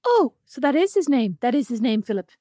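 defeated. Retold or imitated. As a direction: let the disappointment sink in, half-playfully. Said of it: "she said it in a defeated tone".

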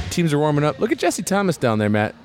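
hyped-up mock arena announcer; frantic mock sports commentary. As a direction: call the lineup like a pumped sportscaster. Mock basketball play-by-play commentary.

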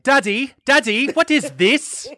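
mock a child whining to its parent; whiny child imitation. Teasing cohost about the TikTok feed, whiny child imitation. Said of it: "I literally do that".

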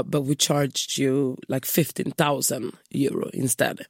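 put-on slow, lightly Spanish-accented receptionist. Receptionist admitting the mistake, slow Spanish accent. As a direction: draw out the apology in a hint of a Spanish accent. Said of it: "spansk brytning".

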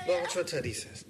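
high squeaky toy voice; talking plush toy. Acted. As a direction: voice the teddy for the dog. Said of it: "not the Teddy voice".

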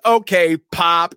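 retelling the shooting with a loud, high, bouncy pop; gleeful mock shot. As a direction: fire it off like a cartoon gunshot. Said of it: "Hans goes".

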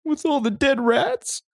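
high squeaky horrified question; mock horror. Mock horror at each place.

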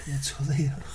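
hippie whisper. Acted.

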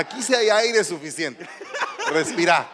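loud, laughing mock calming; laughing reassurance. Real, not acted. Pastor teasing a nervous congregant, laughing. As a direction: tease him gently to breathe.

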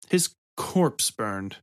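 slow, doubting echo of his words; slow skeptical echo; slow incredulous question. Acted. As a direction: repeat it back slowly, in disbelief. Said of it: "Mock asked".

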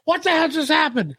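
high, laughing disbelief; laughing mock shock. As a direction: gasp it out in giggling horror. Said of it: "You're like".

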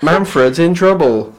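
high, loud, slow herald announcement. Acted. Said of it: "how many hours did you practice that".

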